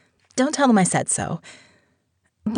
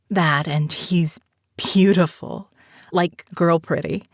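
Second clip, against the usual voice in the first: slow whispered aside; hushed, slow admission; confiding whisper; 3 semitones lower than usual. Acted. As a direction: lean in and whisper the secret. Confiding aside about Abraham's looks.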